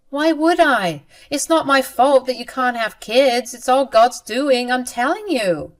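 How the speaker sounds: lightly voiced mean sister, shrugging off blame; callous sister. Sister coldly answers the woman she hurt, smug. Ava's cold reply to Sky.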